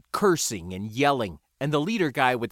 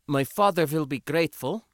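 stated; 4 semitones higher than usual. A narrator's reading. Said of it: "Sindra stated".

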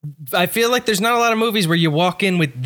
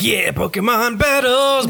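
mock enthusiastic; 9 semitones higher, slower than usual. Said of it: "how they're like".

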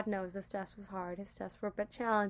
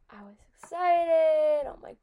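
excited whisper; 6 semitones higher, 7 dB louder than usual. Real, not acted. Homecoming excitement.

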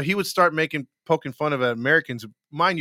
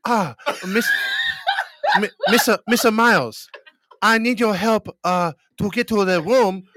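higher-pitched put-on Asian accent; mock Asian accent; 5 semitones higher, 4 dB louder than usual. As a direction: prank caller faking an Asian accent. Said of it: "be freaking racist".

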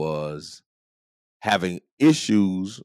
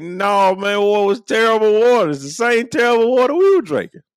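much higher and louder, with a strained, put-on edge; exasperated outburst; 14 semitones higher, 7 dB louder than usual. Elders who grew up under segregation recalling the fountains, exasperated. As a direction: blurt out the disgust with a laugh in it.

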